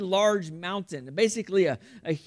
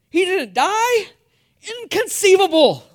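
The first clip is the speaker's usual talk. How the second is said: put-on over-the-top Vizzini accent yelled in disbelief; hammed-up Vizzini accent; 11 semitones higher, 10 dB louder than usual. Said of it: "trying to do the accent".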